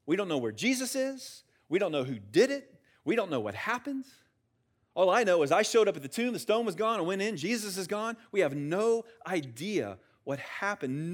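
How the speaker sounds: urgent, rising string of confusion; bewildered report. Acted. Mary reporting the empty tomb to the disciples, bewildered.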